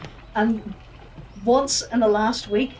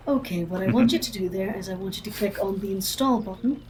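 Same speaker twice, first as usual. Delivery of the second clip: soft, polite help-desk voice; customer service voice; 3 dB quieter than usual. Acted. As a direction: talk them through it calmly. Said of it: "I like your customer service voice".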